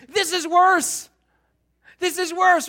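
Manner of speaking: this is worse, WORSE drawn out high and loud; stress on worse. Real, not acted. Preacher to congregation, worse punched high and loud. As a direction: lean hard on worse, slow and loud. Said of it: "emphatic repeat".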